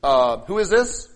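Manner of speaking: loud, slow, suspicious phone answer; critical suspicion. Acted. Answering an unrecognized caller, critical and suspicious. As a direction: draw it out loudly, as if judging the stranger. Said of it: "do you go like this".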